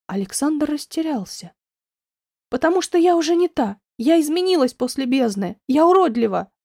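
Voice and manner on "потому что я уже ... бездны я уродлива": loud, higher confession; a touch of anguish. Acted. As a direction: near tears, forcing it out. Near tears, confessing ugliness.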